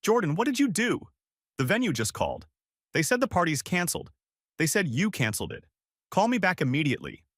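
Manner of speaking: high-pitched, panicked voicemail from mom; frantic mom. A narrator's reading.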